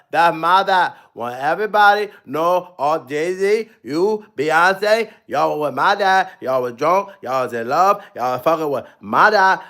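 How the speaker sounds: a hint of a giant ape rumbling; playful low King Kong bit. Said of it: "do the King Kongs".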